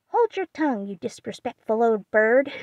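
parrot mimicking. Polly echoing Aunt March, a parrot's cry. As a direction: mimic the old lady like a parrot. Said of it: "cried Polly".

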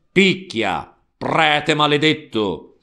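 a grinding, forced shout; mild gritted-teeth cry; through gritted teeth. Acted. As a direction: spit it out through clenched teeth. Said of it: "gridò a denti stretti".

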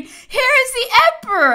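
high, loud rallying cry; taken-up shout. A narrator's reading. Soldiers echoing their officer's cry as they charge, shouting. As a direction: shout it out, pitched far above normal.

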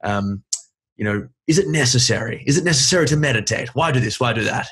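a playful attempt at Alan Watts's British lilt; Alan Watts accent. Host quoting Alan Watts to his guest in a light British accent. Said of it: "I'll try to do the accent".

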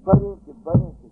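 high, loud urgent call; the boy rushing in to wake the priest; child calling. Retold or imitated.

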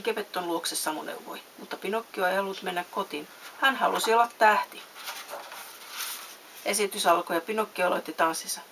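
lively storybook reading with distinct dialogue; measured, animated storytelling; story narration. A narrator's reading. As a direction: read a bedtime story expressively. Reads a story aloud.

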